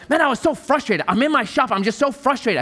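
put-on frustrated young man. Preacher imitating a frustrated young man complaining about his shop.

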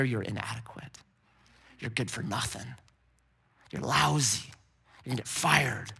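enemy's whisper. Acted. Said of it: "whisper in your ear".

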